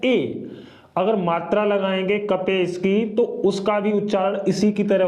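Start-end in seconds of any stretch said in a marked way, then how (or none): 0.1-0.5 ए said alone, crisp and clear; model vowel. Shown as a demonstration. Teacher to students, demonstrating ए. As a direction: sound out ए for learners. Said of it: "ई का उच्चारण होता है".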